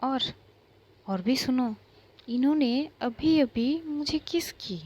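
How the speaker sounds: parade her confession as a joke; mocking announcement. Aaru mocking Isha before class.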